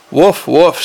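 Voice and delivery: mild, bored woof; a touch of boredom, dutiful woofs. Acted. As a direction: bark without any interest. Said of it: "said the dog in a bored way".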